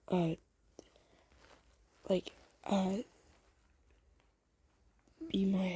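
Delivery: halting, searching for the words; hesitant asking-out. Acted. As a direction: stumble shyly through the question, with long pauses. Nervously asking listener out.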